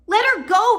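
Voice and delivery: high, loud desperate plea; pleading cry. Acted. Sister begging the villain to free the baby, high loud plea. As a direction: beg him to release her sister. Violet pleads with captor Olaf.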